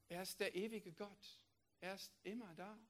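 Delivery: quiet, reverent repeat; hushed. Shown as a demonstration. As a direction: let it sink in softly. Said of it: "repeated, hushed". (leise und ehrfürchtig wiederholt)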